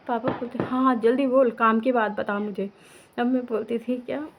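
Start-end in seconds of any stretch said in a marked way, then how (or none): 0.6-2.7 raised-voice mock impatience; imitated impatient dad. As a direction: hurry the caller along, as dad would. Imitates father hurrying her on phone. (पापा की नकल, हल्की झुंझलाहट में)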